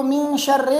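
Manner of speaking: "شر" as "sharre"; wrong vowel. Shown as a demonstration. Teacher imitates the mistake, e after ra. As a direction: say "من شر" with an e at the end. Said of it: "ایک تو".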